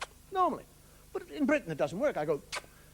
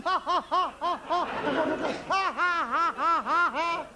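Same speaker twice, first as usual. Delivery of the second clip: fake pub laughter; 4 semitones higher, slower than usual. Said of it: "See all these people sitting in the pub?".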